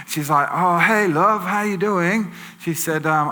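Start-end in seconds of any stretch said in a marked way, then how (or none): 0.5-2.3 higher-pitched, drawn-out friendly greeting; imitated tipsy lady. Tipsy lady greets the driver who stopped, higher chummy voice. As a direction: lightly play a chummy, tipsy woman. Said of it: "this lady staggering on the road".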